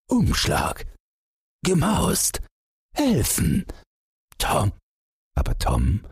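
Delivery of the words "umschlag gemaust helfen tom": single words gasped out high; panting while running. A narrator's reading. Running father calls for help, panting exclamations. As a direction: blurt each word between breaths, pitch jumping. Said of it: "Stürmend keuchte der Vater".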